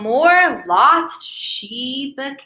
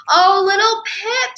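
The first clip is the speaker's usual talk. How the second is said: relieved mama; 6 semitones higher than usual. Acted. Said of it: "said Mama".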